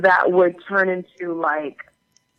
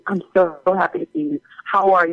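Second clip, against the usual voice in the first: effusive greeting; faster than usual. Retold or imitated. Retelling warm premiere greeting.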